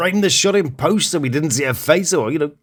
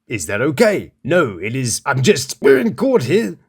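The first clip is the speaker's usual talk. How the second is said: put-on British accent. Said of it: "which I will read to you now in my delightful British accent".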